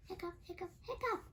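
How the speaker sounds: hiccup sounds. Acted. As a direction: build to one big hiccup. Pete hiccups, last one big.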